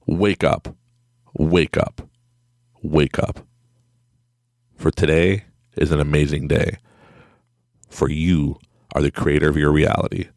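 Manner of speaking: measured, spaced-out motivational wake-up; alarm wake-up call. Pretend. Recording an alarm clip for listeners, measured wake-up call. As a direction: intone it like a recorded morning alarm. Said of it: "for your alarm, just clip this".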